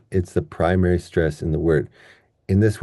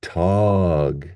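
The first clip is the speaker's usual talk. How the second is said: "tog" held long and full; stressed syllable. Shown as a demonstration. Teacher isolating the stressed syllable, long full "tog". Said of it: "the stress here is on the".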